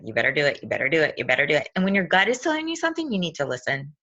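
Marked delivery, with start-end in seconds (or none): 0.0-1.7 low, repeated inner urging; nagging gut voice. Retold or imitated. Speaker's churning stomach urging her to act, lightly imitated nagging. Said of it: "my stomach was churning. It's like".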